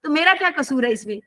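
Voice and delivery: retold childish blame-shifting; childlike innocent protest. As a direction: lightly imitate a child pleading innocence. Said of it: "उन्होंने ऐसे बच्चे की तरह बातें की".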